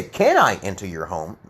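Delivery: matter-of-fact asking, stress on "Can". Shown as a demonstration. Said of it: "not as emotional".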